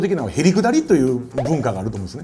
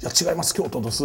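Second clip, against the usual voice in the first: put-on elderly Kyoto local; 6 dB quieter, faster than usual. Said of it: "お年を召した方に".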